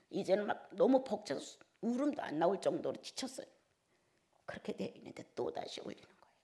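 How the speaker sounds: ordinary talk, nothing marked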